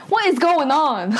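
laughing, incredulous outburst; utterly baffled, breaking into a laugh; baffled exclamation. Real, not acted. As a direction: raise the pitch in amused disbelief. Recapper baffled by the plot.

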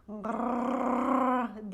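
sleepy tiger growl; a lazy big-cat yawn; a tiger yawns on a branch. A narrator's reading. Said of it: "diye esnedi çizgili kaplan".

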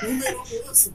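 mock crying. Whiny mock-cry complaint.

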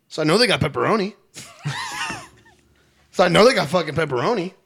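laughing. Real, not acted. Laughing at absurd pizza story.

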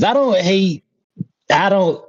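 struggling to keep a straight face, high; trying not to crack up; laughing. Real, not acted. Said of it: "I can't even say it with straight".

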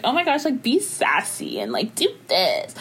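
lightly imitated brand client, slowing down; a hint of a pushy client, mimicked; mock brand rep. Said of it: "and they were like".

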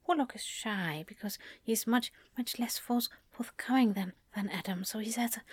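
put-on softish, hesitant little kid; a timid child who holds back; Warlock. Shown as a demonstration. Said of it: "bit shy".

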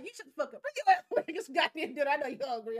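fiance hollering at her to come eat; mock loud boyfriend calling to dinner; mock bossy fiance. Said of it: "He's like".

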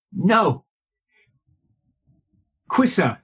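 high-pitched mimicked Hong Kong Chinese accent. Manager contradicting the ex-Marine, Hong Kong Chinese accent. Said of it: "Sorry, I'm doing the accent".

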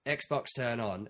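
slow, careful "Xbox, turn on"; slow command voice. Retold or imitated. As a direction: spell it out to the machine slowly. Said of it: "You walk in and you go".

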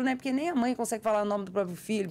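normal talking voice

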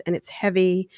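mention "it's heavy" gently, just bringing it up; gentle request. Shown as a demonstration. Wife sweetly asking husband to take the trash, "it's heavy" said gently. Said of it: "here comes the meat".

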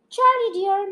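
called out. Acted. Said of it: "called out from where she was standing".

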